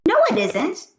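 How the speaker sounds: put-on high, eager kid voice; pleading little boy, fast and high; Joe's voice. A narrator's reading. Joe begs the teacher to let him go to recess, high eager kid voice.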